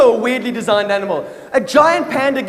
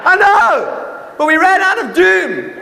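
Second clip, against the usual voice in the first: wife's reply; 7 semitones higher, 3 dB louder than usual. Retold or imitated. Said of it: "my wife was chasing a cockroach".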